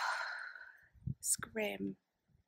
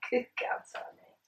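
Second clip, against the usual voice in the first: dog-talk voice; 11 semitones higher, slower than usual. Real, not acted. Owner cooing at her dog Mabel, high sing-song voice. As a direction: coo at the puppy in a high voice.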